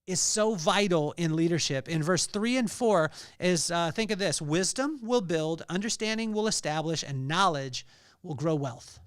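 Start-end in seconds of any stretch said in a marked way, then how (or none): 4.4-9.0 scripture reading. Shown as a demonstration. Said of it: "Let me say it again".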